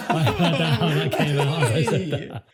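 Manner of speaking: high, loud words through real laughter; laughing too hard to talk properly; helpless laughter. Real, not acted. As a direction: crack up at your own slip. Cracking up at own double meaning.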